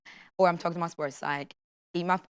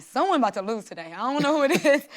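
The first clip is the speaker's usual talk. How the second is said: tense inner thought; 6 semitones higher than usual. Retold or imitated. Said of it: "And it's like".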